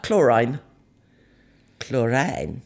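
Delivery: Chlorine said klor-EYEN, rhyming with line; odd pronunciation. Shown as a demonstration. Mum mocking her own slip, Chlorine as klor-eyen. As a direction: Chlorine ending in a long eye sound, klor-rine. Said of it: "I don't know why I said that".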